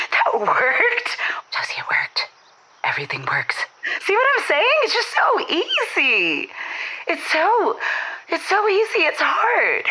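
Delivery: high, giddy disbelief; thrilled it worked, voice leaping high; excited squeal. Real, not acted. Caller squeals to the host that her pickup worked, excited.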